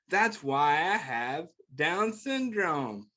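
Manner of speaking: gentle picture book read-aloud; reading to children. Acted. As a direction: read it like a bedtime book for kids.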